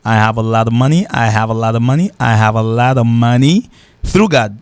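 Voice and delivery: "I have a lot of money" lent, "of" réduit sans F; anglais démontré. Shown as a demonstration. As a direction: dire la phrase lentement en anglais. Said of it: "et F l'a pas prononcé". (démonstration lente en anglais)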